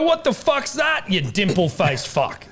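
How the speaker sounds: high, slow, half-joking yell; friendly mock outrage, high and slow; mock shout. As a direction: bellow it at a new mate in fun. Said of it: "I'd go".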